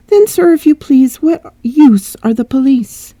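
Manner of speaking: put-on high English-accented servant complaining; old servant asking sharply, accented. Old servant complains to her master, English accent. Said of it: "English accent servant".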